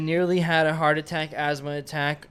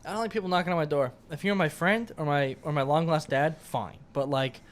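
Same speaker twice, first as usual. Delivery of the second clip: gangster voice. Acted. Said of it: "you sound like a fucking gangster right now".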